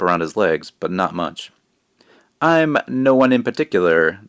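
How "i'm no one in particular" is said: witch voice. Acted. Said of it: "the woman said with a small giggle".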